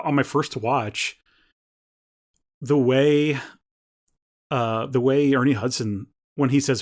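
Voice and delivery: usual speaking voice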